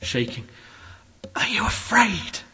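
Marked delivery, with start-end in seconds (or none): 1.3-2.4 shaky whispered question. A narrator's reading. Mole whispering to Rat before the god. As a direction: hush it out, scared to ask. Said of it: "he found breath to whisper".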